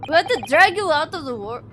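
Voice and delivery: a shaky attempt at an Indian accent; half-committed Indian accent. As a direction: put on an Indian accent for the officer's line. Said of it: "that's an Indian accent".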